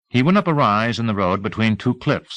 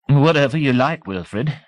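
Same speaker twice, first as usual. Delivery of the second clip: put-on old lady voice; 6 semitones higher, 3 dB louder than usual. A narrator's reading.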